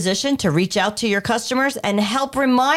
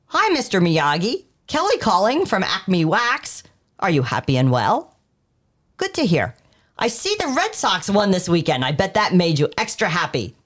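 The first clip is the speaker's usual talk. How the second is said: friendly personal call; 3 semitones lower than usual. Shown as a demonstration. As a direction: make the customer feel known. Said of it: "the subtle difference you hear between those two opening lines".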